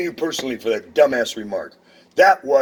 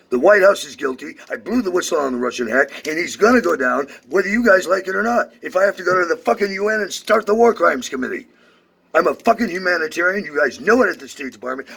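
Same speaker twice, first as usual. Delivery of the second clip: louder, higher real tirade; angry rant; 4 semitones higher, 4 dB louder than usual. Real, not acted. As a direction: rant into the phone, raging. Ranting loudly on phone.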